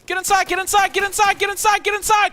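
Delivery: high urgent shouting; calling from far away. Real, not acted. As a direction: yell across the field to the squad. Calling squad to building.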